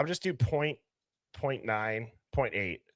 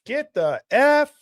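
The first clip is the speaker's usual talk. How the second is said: high, slow imitation of an overheard woman; imitating female voice; 8 semitones higher, 4 dB louder, slower than usual. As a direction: lightly mimic her cry, pitched up and drawn out. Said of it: "hear a female voice go".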